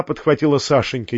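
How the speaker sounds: usual speaking voice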